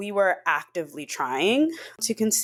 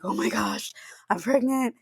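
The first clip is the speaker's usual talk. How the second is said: hushed, choked-up realization, re-enacted; retold tearful disbelief; 5 semitones higher than usual. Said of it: "bawling my eyes out".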